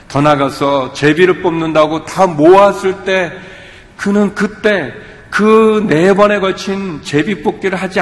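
urgent pulpit exhortation; impassioned preaching. Real, not acted. Preaching builds to climax.

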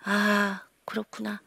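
"아, 그렇구나" said very softly, trailing away; a student quietly conceding to the counselor; quiet realization. Retold or imitated. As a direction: let it sink in quietly, deflated. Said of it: "그랬더니 걔가".

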